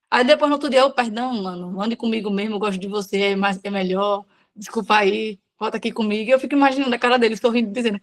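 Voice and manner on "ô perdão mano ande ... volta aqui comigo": softer and lower, a sheepish plea; sheepish apology. Retold or imitated. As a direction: coax a friend back gently, voice down. Making up with Jesus next day.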